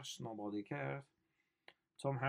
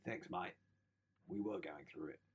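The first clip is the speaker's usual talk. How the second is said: put-on the grateful kid; 5 semitones lower, 7 dB quieter than usual. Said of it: "he'd be like".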